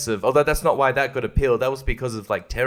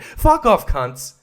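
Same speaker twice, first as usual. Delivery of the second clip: high sharp yell of fury; angry yell; 6 semitones higher, slower than usual. Real, not acted. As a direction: spit it out furiously. Yelling at YouTube.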